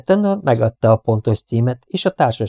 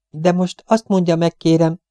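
higher-pitched urgent plea; insistent request; 7 semitones higher than usual. A narrator's reading. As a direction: press for an answer. Pressing an interrupted witness. (sürgető kérés)

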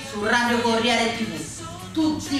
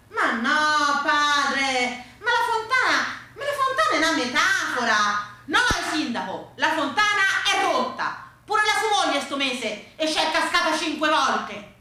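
high-pitched, insistent back and forth; exasperated protest; 4 semitones higher than usual. Acted. Priest and mayor argue over the fountain, exasperated.

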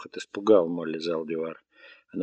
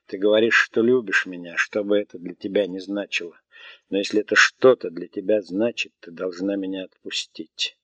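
weary voice rising into anger; growing anger; 4 dB louder than usual. Acted. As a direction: start tired, then push with anger. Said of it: "начал набирать силу от гнева".

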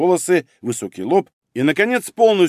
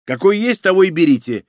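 higher, huffy grumble; grumpy; 5 semitones higher, 4 dB louder than usual. Acted. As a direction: throw it back sulkily. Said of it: "буркнул Мамыкин". (обиженно буркнуть)

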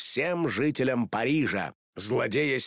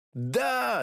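much higher excited yell; shouted; 13 semitones higher than usual. Acted. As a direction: cheer it out like the twins. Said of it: "закричали близняшки".

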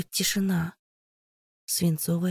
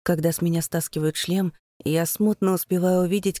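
usual speaking voice

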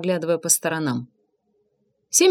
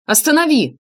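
shout; 6 semitones higher, 4 dB louder than usual. A narrator's reading. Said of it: "крикнул я".

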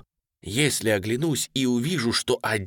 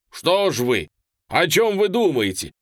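loud, higher impatient rebuke; scolding; 5 semitones higher, 6 dB louder than usual. A narrator's reading. General scolding the hesitant colonel, loud and impatient. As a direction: demand an answer sharply.

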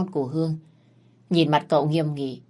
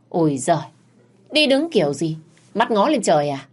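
scolding; 3 dB louder than usual. Acted. Mother scolds clumsy daughter.

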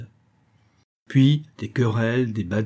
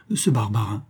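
vibrant voice. Acted. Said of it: "commença d'une voix vibrante".

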